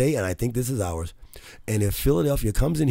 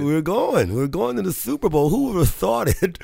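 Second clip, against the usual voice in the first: loud, high, triumphant cheering; excited; 7 semitones higher, 4 dB louder than usual. Real, not acted. Radio host crowing to his cohost about the Super Bowl, excited and loud. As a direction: crow about the win, voice up and loud.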